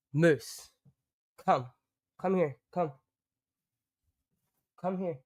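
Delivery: firm calling a dog, like a mom. Real, not acted. Calling Moose the dog in a firm mom voice. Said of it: "using my mom voice".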